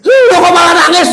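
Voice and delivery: high-pitched incredulous question; puzzled blind man. Acted. Blind man asking the stranger why he cries, puzzled. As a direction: ask in a high character voice.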